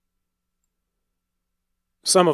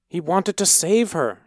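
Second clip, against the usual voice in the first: higher, urgent mother's plea; pleading; 7 semitones higher than usual. A narrator's reading. Mother begging the priest to spare her son, pleading. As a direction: beg for her son's life. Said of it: "his mother pleaded".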